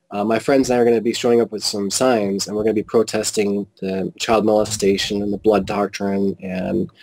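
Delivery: controlled, conversational recital; matter-of-fact. Retold or imitated. Protester telling Witnesses his plans, matter-of-fact. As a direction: state it evenly, no attack in it. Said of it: "you said this in a very matter-of-fact way".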